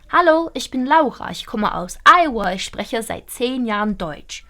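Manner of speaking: crisp native German, "spreche" with a guttural r, "Deutsch" with a clean oi; native German accent. Shown as a demonstration. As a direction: demo how a real German says it. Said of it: "You want to sound like a German".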